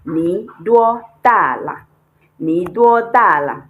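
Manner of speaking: Ni duo da la said slowly and clearly; teacher modelling the question; model phrase. Shown as a demonstration. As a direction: demonstrate the adult question. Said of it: "you say".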